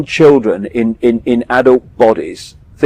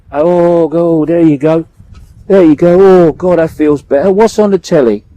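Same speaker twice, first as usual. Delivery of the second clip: smug denier; 3 semitones higher, 3 dB louder than usual. Retold or imitated. Voicing man with head in sand.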